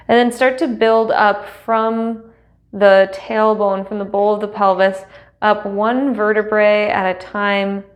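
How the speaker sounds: measured, unhurried meditation guide with long pauses; guided meditation. Acted. Teacher settling students into seat and breath, guided meditation. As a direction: guide them gently into stillness, leaving space between phrases.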